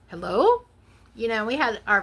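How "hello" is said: loud rising phone hello, unsure who's calling; questioning phone hello. Retold or imitated. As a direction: answer like you don't know who's on the line. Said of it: "answered the phone like".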